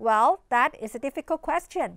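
drawn-out, thoughtful demo reply; slow model answer. Shown as a demonstration. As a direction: stretch it out like you're thinking. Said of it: "เราก็อาจจะบอกเขาก่อน ... ว่า". (ครูพูดช้าๆ เหมือนกำลังคิด)

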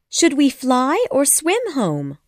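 Wendy asking Peter how to get home. A narrator's reading. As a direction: ask as if it is simple. Wendy speaking.

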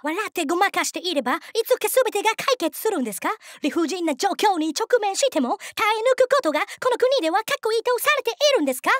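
high, insistent foreigner's Japanese; mounting mock-serious indictment; earnest foreign interrogator. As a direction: press the questions in lightly accented Japanese.

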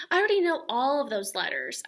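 put-on a cheeky five-year-old boasting; proud little girl. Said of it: "I said".

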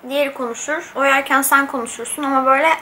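eating while talking; slightly food in mouth; talking between bites. Real, not acted. Seen 0: Fork near mouth at start, then cutting food while talking; bite just before.

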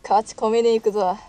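gruff gangster threat; yakuza voice. Pretend. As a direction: bark it like a yakuza. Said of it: "ヤクザキャラで言ってたんだけどな".

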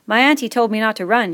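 worried schoolboy asking; fat boy voice. Acted.

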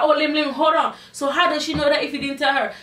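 retold challenge. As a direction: imitate someone halting him to question him. Retelling them challenging Lim.

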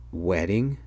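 drawn-out "Wedding" with a slow rise; dawning realization. A narrator's reading. Son realizing what he had just said, understated dawning surprise. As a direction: stretch "Wedding" into a question as it sinks in. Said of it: "Then I realized what I had just said".

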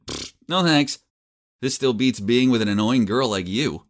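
scoffing, curt no thanks; dismissive refusal. Acted. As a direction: brush her off with a pfft. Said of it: "I shook my head and said".

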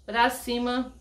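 shaky voice from a real tremor; trembling. Real, not acted. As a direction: speak through a steady tremble. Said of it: "você tá vendo que eu estou tremendo".

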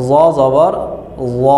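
"জ জবর জ" with a thick buzzing z and rounded o; heavy Arabic Za. Shown as a demonstration. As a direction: make each "জ" a full emphatic z. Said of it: "মোটা করে".

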